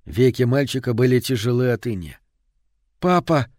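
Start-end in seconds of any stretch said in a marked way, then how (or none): 3.0-3.5 put-on higher call from a weary boy; tired, hoarse child. A narrator's reading. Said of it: "Его детский усталый голос стал хриплым". (усталый, охрипший детский зов)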